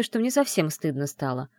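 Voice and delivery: usual speaking voice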